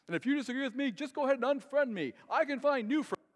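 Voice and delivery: loud, high-pitched mock online rant; all-caps rant. Pastor friend posting on Facebook in all caps, mock shouting. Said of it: "typing in all caps".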